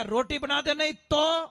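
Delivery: a half-hearted husband's shout for his food; loud demand. Retold or imitated. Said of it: "जोर से पटका और जोर से बोले".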